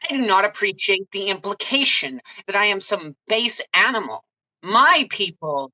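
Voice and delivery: bristling with offended pride; indignant Grace. Acted. Grace indignantly answering the wizard who called her an animal.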